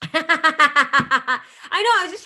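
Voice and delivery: loud, high burst of laughter; real laugh. Real, not acted. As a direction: crack up, then get the words out. Bursts out laughing at her joke.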